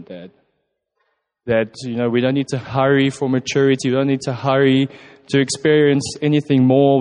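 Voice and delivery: heartfelt prayer with pauses between phrases. Real, not acted. Speaker thanking God as Dad for his love, earnest prayer. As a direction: pray unhurriedly, phrase by phrase.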